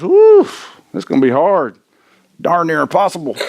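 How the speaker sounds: overwhelmed by the big game ahead; dramatic dismayed whew. Retold or imitated. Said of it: "My first thought is".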